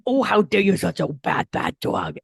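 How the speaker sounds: put-on sweet baby talk scolding a dog; fond mock scolding of a pet; cooing to a pet. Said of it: "grab your pup or your cat and you go".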